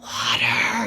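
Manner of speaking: unvoiced dry croak of thirst; parched croak. Thirsty desert wanderer begging for water, parched croak. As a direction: rasp out water like dying of thirst.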